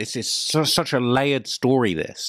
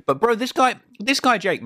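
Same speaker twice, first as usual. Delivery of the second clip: stunned disbelief; 10 semitones higher than usual. Real, not acted. Stunned by the evidence.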